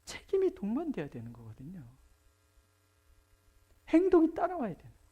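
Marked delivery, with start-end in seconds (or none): 3.9-5.0 행동이 hit high and loud, then a fast fall; 행동이 struck hard at the top of the voice; stress on 행동이. Real, not acted. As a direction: drive 행동이 home, quick and high. Preacher stresses action.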